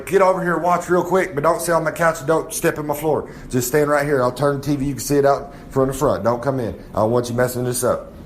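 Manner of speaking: mock yell at the guys; bossing the guys from the trailer; calling out to the crowd; yelled orders. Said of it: "I'm yelling out to everybody".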